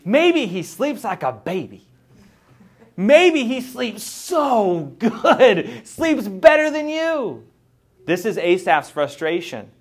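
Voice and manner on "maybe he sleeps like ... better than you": high, slow, laughing taunt; laughing mockery. Real, not acted. Mocking the rich man's good sleep.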